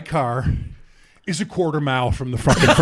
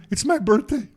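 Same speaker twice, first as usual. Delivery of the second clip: retold crying; 6 semitones higher than usual. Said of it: "He's fucking crying".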